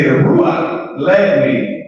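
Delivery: slow mock "The Ruach led me"; mocking baby mama. Teacher imitating his baby mama, slow mild mock. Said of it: "She say".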